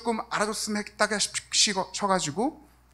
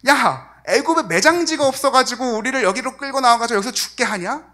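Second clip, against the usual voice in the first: louder, higher sarcastic jab at Moses; sarcastic retort; 4 semitones higher, 5 dB louder than usual. Retold or imitated. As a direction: sneer it like a mocking complaint. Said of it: "굉장히 비꼬는 말투 아닌가요".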